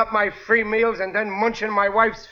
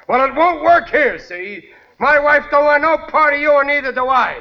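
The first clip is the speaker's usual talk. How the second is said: angry dismissal; 7 semitones higher, 4 dB louder than usual. Acted. Husband orders rival out.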